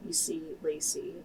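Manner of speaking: hushed, unvoiced storytelling; whispered narration. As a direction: lean in and whisper.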